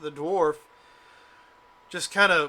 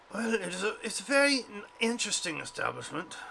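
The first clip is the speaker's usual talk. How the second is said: failed weird voice; 5 semitones higher than usual. Acted. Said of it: "trying to do a fucked up voice and it's not coming out".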